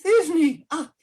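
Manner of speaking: high squeaky lady voice; tiny monster trying fierce; monstrous little voice. Acted. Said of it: "I'll speak in a monstrous little voice".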